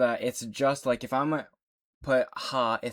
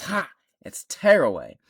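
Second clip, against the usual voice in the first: mock Steph Curry; 4 semitones higher, 7 dB louder than usual. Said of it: "and he goes".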